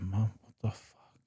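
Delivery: slow, breathless whisper of shock; a retold whisper of disbelief; stunned whisper. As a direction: hush it out, floored by the news. Stunned at mum's revelation.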